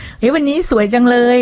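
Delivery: sincere compliment. Shown as a demonstration. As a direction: say it as if you truly mean it. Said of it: "ฟังแล้วดูแบบ จริงใจ".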